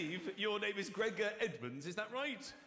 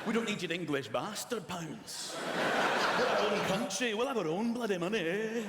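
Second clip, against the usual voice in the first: louder, defiant Scottish boast; mock Scottish defiance; 5 dB louder than usual. Comic mocking Scots over money, louder defiant boast. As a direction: stand your ground, proud and loud.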